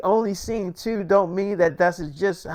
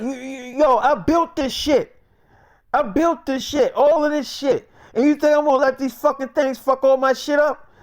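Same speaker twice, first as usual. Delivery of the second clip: raised, heated protest, pitch climbing high; retold friend defending the lab he built, angry and raised; angry outburst; 6 semitones higher than usual. Mike refuses to leave his lab.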